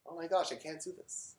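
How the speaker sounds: soft, defeated voice; quiet despair. Acted. Struggler giving up on a long journey, quietly despairing. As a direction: drop the volume right down as if giving up. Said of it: "you just despair".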